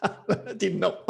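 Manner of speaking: said through a laugh; light laugh on the words. Real, not acted. Laughs at his own remark.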